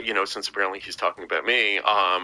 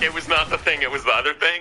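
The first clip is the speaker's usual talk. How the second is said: mock prim higher voice; prim quoting voice; 6 semitones higher than usual. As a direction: quote it like a fussy gentleman. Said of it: "I love the".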